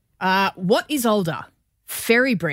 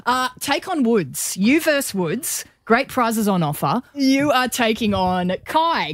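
radio host voice; 3 semitones higher than usual. Acted. Game show host style intro.

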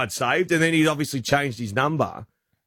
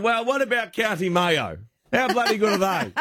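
mock matey; 6 semitones higher than usual. Chatting up Irishman, high.

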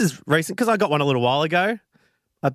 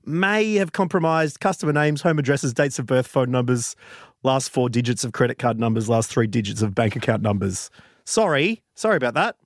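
casually sorry corporate voice; a hint of careless company spokesperson; mock breezy apology; 5 semitones lower than usual. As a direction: shrug off the data breach lightly. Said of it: "they said to go".

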